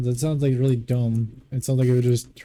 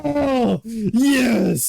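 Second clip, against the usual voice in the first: high, breathy mock pleasure; mock moaning; 9 semitones higher than usual. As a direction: ham up an over-the-top moan. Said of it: "you want me to sit there and be like".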